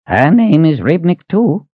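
put-on high, slow, puzzled old man; surprised old Reuben. Old Reuben puzzled about his wife's name, high and slow. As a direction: let the surprise lift the old voice.

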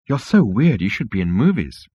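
mild, swooping admiration; awed wonder. Acted. Starstruck insect praises Zaphod, in mild awe. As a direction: marvel at a celebrity. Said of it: "said the insect in awed wonder".

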